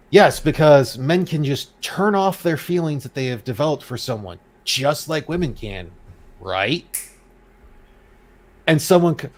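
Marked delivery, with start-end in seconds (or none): 0.1-6.8 sarcastic mock agreement with a drawn-out finish. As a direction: lay on the sarcasm, stretching the last phrase. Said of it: "It's called sarcasm".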